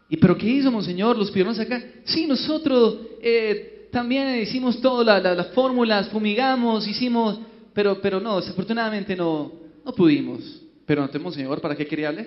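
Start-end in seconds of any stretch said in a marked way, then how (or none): 2.0-10.6 put-on higher Argentine-accented Spanish. Argentine bishop Batista to the council, higher Argentine accent. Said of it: "Monseñor Batista, háblenos".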